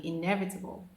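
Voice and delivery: inevitable as "in-EV-uh-tuh-bul"; teacher's inevitable; careful inevitable. Shown as a demonstration. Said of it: "Say it after me".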